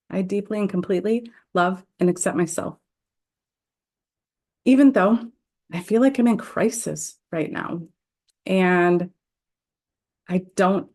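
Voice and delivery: measured, deliberate affirmation read with pauses; guided tapping script. Acted. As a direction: lead the group through each setup phrase. Leads tapping setup affirmations.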